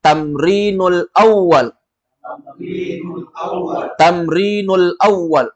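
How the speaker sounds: teacher models new phrase; slow model phrase. Shown as a demonstration. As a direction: say it slowly for repetition. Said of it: "kita katakan".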